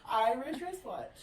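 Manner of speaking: slow, measured "Irish wristwatch"; slow tongue-twister model; careful demonstration. Shown as a demonstration. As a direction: spell out "Irish wristwatch" slowly by ear. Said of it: "you can't say Irish wristwatch".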